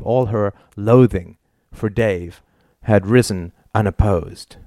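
plain reading voice

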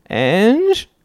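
high, rising, hurt plea; wounded husband. A narrator's reading. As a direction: cry out like a wronged husband. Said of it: "cried out in the wounded husband voice".

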